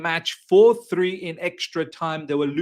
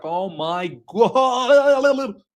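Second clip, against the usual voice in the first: stunned gasp; 2 semitones higher, 4 dB louder, much slower than usual. Retold or imitated. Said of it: "I was like".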